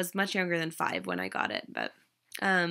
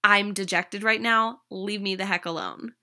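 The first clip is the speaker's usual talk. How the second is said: sulky inner voice; 4 dB louder than usual. Retold or imitated. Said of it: "The unconscious mind was saying".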